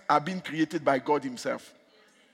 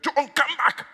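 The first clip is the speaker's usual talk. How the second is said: higher imitated call, less forceful; retold summons; 10 semitones higher, 3 dB louder, slower than usual. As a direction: echo the calling voice without full volume. Voice heard far away in bathroom.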